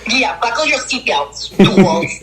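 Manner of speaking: hammed-up tough-guy warning to the listeners; mock tough guy. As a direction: growl fools like a mock bouncer. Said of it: "playful tough-guy line".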